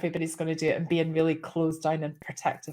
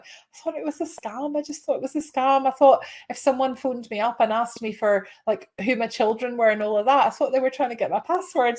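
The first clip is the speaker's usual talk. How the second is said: higher-pitched imitation of a caller excusing herself; defensive caller; 4 semitones higher than usual. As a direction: protest your innocence, pitched up. Linda's defensive excuse, acted out.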